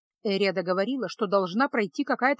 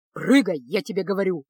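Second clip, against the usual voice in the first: рассвирепев; 3 semitones lower, 3 dB louder than usual. Acted. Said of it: "рассвирепел Кайл".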